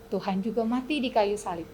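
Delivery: ordinary delivery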